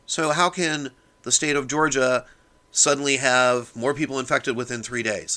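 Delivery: worked-up, emphatic rant; fired up. Real, not acted. Podcaster ranting about media coverage of the incubation period, fired up. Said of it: "Sorry I got a little fired up there".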